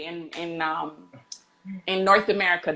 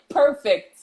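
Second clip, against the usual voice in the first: laughing; 6 semitones higher, 4 dB louder than usual. Real, not acted. Showing emoji meaning, laughing.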